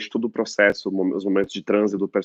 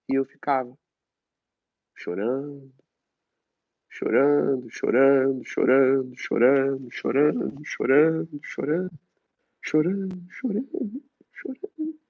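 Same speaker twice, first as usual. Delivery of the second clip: each chorando higher and higher until it breaks; rising lament; 4 semitones higher, slower than usual. Acted. Boy recalling being locked in, wailing. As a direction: climb the pitch into a wail.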